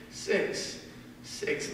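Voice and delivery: hushed, breathy whisper of the word; whispered echo. Acted. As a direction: let it fall to a whisper, like an echo. Echoes the word in a hush.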